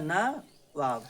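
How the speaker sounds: नवाब drawn out very slowly, syllable by syllable; slow spelling demo. Shown as a demonstration. Teacher to class, very slowly spelling the word. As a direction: stretch नवाब for dictation. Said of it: "अरे क्या लिखा है?".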